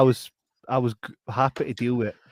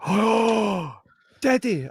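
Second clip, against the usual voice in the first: mock surprise; 9 semitones higher, 3 dB louder, much slower than usual. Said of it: "She's like, gasps".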